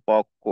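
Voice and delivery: পক্ষ as "pok-kho"; doubled-consonant demo. Shown as a demonstration. Teacher showing learners how পক্ষ is said, doubled-consonant demo. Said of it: "এটা উচ্চারণ হবে".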